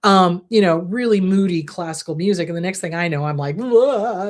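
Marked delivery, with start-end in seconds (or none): 3.6-4.3 mock sobbing wail; imitated sobbing wail. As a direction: let out a brief pretend bawl.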